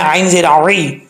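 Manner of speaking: "औई" starting with a pharyngeal ayn, not a hamza; throat ayn. Shown as a demonstration. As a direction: spell out "आइन ज़ेर औई" with squeezed throat on the i. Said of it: "हमजे की आवाज़ नहीं पढ़नी चाहिए".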